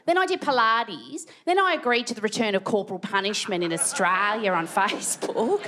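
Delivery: high, chirpy suburban mum; breezy Kelly. Retold or imitated. Friend asking Kelly about her day, chirpy reply. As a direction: rattle off the day brightly. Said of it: "It's like".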